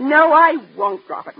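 slow, loud refusal; mother won't let it go; stubborn insistence. Acted. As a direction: dig in your heels.

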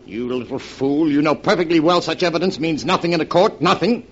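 high, loud, furious accusation; angry. Acted. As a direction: lash out in anger. Confrontation on the cliff.

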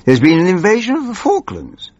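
high, fast, panicky; panicky minister. Acted. Snivelling minister to the old MP, high and fast in panic. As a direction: blurt it out in a high flap.

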